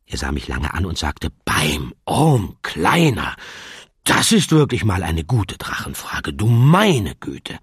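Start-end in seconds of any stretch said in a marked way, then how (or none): 1.5-7.6 genuine admiration. Acted. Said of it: "In seiner Stimme schwang echte Anerkennung".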